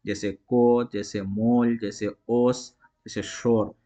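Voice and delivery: को, मोल, ओस, शोर with the o not drawn out; plain short o demo. Shown as a demonstration. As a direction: keep the o unstretched. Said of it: "जिसे खींच कर नहीं पढ़ा जाता है".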